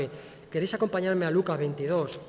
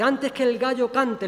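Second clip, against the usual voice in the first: Lord's warning; 5 semitones higher, 4 dB louder, slower than usual. Acted. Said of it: "le dijo el Señor".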